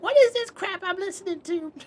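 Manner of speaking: high, put-on old lady complaint; grumpy grandma. Cranky grandma complaining about her granddaughter's new music, high and sour. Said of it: "She'll be like".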